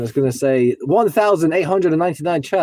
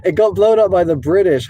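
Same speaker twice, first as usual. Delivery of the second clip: louder, higher exclaimed news; excited; 5 semitones higher, 4 dB louder than usual. Real, not acted. Streamer reading history, louder and higher in surprise. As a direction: blurt it out amazed.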